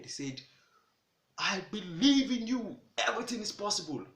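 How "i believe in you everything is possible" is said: shouted encouragement. Retold or imitated. Parrot calling down to the fleeing bird, loud cheer. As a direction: shout it up from mid-air. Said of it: "he shouted on that bed".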